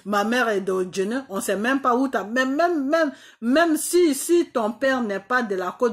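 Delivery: rising to a near shout on the repeated même; heated outburst. Real, not acted. Ranting at Ouattara, voice climbing into a near shout. Heated rant about his mother's village.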